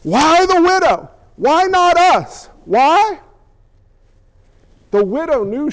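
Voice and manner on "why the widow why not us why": high, slow indignant questions; indignant crowd demanding an answer; furious protest. Acted. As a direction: draw out each why in acted outrage. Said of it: "It made him furious".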